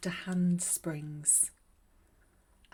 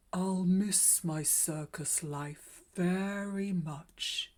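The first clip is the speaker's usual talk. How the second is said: put-on wistful old clown; slower than usual. A narrator's reading. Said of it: "he said to himself".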